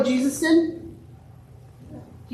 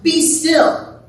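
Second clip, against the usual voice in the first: measured, solemn scripture reading; gospel reading; 4 dB quieter, slower than usual. A narrator's reading. Pastor reads the gospel to the congregation, measured reading. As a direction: read scripture out in unhurried, separated phrases.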